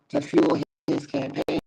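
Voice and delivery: choppy cutting-out connection; audio breaking up. Real, not acted. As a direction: voice dropping out on a bad line. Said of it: "It sound like you was breaking up".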